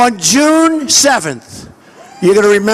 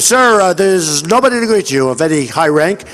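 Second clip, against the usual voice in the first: lightly voiced deferential official, pitched down; apologetic aide; 6 semitones lower than usual. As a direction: imitate an aide breaking bad news, low. Voices an aide breaking bad news.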